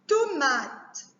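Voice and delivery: "Tomate" measured out as To-ma-te; distinct syllables in "Tomate", last one sounded; split into syllables. Shown as a demonstration. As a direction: mark each syllable of "Tomate". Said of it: "couper les mots en syllabes".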